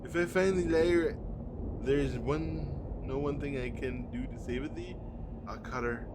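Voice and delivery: hint of a lofty old tree speaking; solemn tree voice. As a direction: read it as an old forest spirit. Reads talking tree dialogue.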